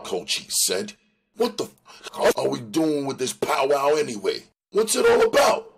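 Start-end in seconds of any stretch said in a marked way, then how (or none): 1.4-5.7 high, loud, fast and agitated gang tough; angry gang warrior. Acted. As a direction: Cochise losing patience with the powwow. Cochise voiced in a read story.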